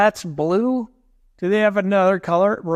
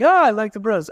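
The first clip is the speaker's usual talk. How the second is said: mocking fair-weather fan; 5 semitones higher, 4 dB louder, faster than usual. Teasing friend's fickle fandom.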